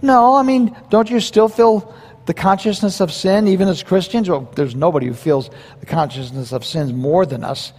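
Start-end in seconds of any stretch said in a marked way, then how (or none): 0.0-4.3 retold puzzled objection. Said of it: "I'm going".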